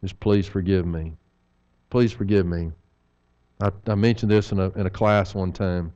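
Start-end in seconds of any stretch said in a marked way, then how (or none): 0.1-2.7 humble plea. Shown as a demonstration. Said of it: "help me to say".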